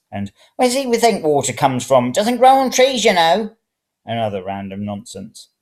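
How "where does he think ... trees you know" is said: put-on muttering old woman. A narrator's reading. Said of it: "muttering about".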